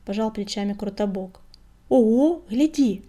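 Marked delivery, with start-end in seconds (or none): 1.9-3.0 loud, eager "look at that"; excited exclamation. A narrator's reading. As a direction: exclaim at a happy find. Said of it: "воскликнул он".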